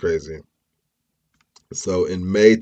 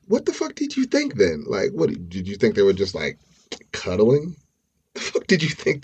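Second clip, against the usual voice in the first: incredulous; 3 semitones higher than usual. Real, not acted. Incredulous rant at Alyssa.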